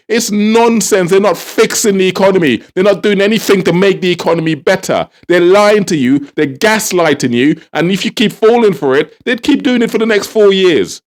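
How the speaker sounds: worked-up, insistent rant; amped up. Real, not acted. Vlogger warns viewers the government is gaslighting them, amped up. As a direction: press each accusation home, really wound up. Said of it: "Can you tell I'm amped up?".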